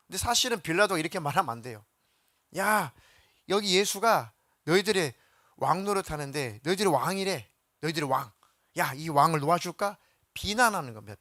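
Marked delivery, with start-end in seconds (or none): 2.6-10.0 raised, mocking call to the crowd; sarcastic taunt. Pilate taunting the Jews about their king, sarcastic. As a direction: needle the crowd with the word king. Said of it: "비꼬는 거예요".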